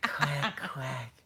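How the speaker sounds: small, trailing-off quacks; mock duck quacks. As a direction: lightly imitate a duck quacking. Mimicking ducks fed popcorn.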